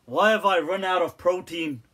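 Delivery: loud hammed-up complaint; mock tragedy over protein; mock lament. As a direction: wail over a trivial loss. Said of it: "he's like".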